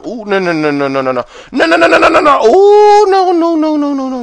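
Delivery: high, loud frantic no's easing off; real panic, pleading with the game; panicked no's. Real, not acted. Gamer nearly dying in a fight, high frantic pleading.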